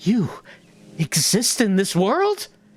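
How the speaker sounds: gasping, stunned, disbelieving delivery. Explaining how the character greets people, say it gasping in disbelief. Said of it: "I gasp and say in disbelief".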